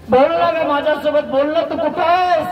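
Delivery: high, pleading call. Acted. Parashuram begs his missing mother to answer, calling high. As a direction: plead for an answer, pitched well up. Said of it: "आईला आवाज देतोय".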